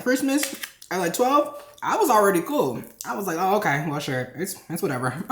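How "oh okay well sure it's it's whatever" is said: resigned shrug. Retold or imitated. Replaying own resigned shrug.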